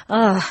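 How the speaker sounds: muffled "ah" of recognition; stifled groan. A narrator's reading. Housekeeper confirming the governess's guess, stifled groan. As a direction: let a small groan of assent escape. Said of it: "un gemito soffocato di approvazione".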